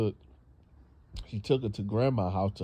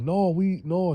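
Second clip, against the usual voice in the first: squeaky denial; 8 semitones higher, 4 dB louder than usual. Retold or imitated. Man caught, squeaky denial.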